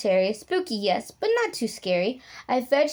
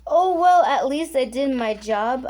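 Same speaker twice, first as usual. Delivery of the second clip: sniffly sigh; 2 semitones higher, 4 dB louder than usual. Acted. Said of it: "I sniffled back".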